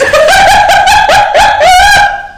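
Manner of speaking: high shrieking burst of laughter. Real, not acted. Laughing hard at the Primark story. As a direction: howl with laughter, high and loud. Cackling at his own story.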